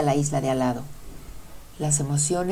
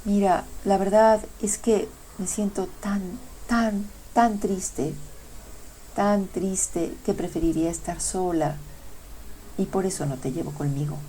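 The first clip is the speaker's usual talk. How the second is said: mild sorrowful voice; 3 semitones higher, 3 dB quieter than usual. Acted. Sadness turns love away, softly and mournfully. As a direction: let sadness weigh each tan. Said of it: "La tristeza lo miró y le dijo".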